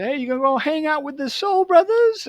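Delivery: high-pitched mocking jeer; mocking taunt. Kids making fun of the boy with the afro, mocking. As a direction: imitate teasing kids in a high put-on voice. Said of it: "people would make fun of me".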